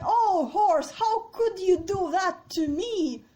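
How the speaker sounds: high, very loud hammed-up reproach; betrayed king's outcry. Deposed king reproaches his horse for betraying him, loud outcry. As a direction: wail dramatically at the faithless horse. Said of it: "then he's like".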